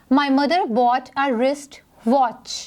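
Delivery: slow, careful reading of the sentence; example read aloud. Shown as a demonstration. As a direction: read it slowly for the students. Reads example sentence slowly. (धीमे से उदाहरण पढ़ना)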